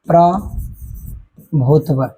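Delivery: प्रभुत्व drawn out syllable by syllable; slow dictation. Shown as a demonstration. Teacher dictating a homework word to students, very slow. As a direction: dictate प्रभुत्व very slowly for the class. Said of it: "dictating homework word".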